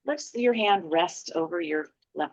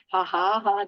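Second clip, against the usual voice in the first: playful ha-ha laugh on purpose; demonstrated giggle; 2 semitones higher than usual. Shown as a demonstration. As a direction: spell the giggle out as "ha ha ha". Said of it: "get a little giggle".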